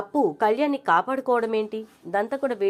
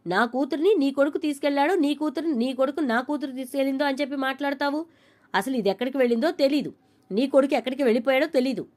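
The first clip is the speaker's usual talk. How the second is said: mild retold anger; 4 semitones higher than usual. Kanakam's heated retort in quarrel.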